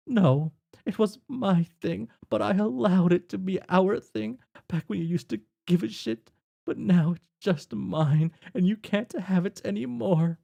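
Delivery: a hint of a sulking friend; upset rant. Jane berating Jake.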